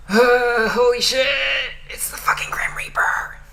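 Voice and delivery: frantic. Acted. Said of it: "Gumball thought to himself frantically".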